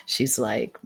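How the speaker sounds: breathy whispered lead-in; whispered aside. Real, not acted. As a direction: drop to a whisper. Private aside during reading.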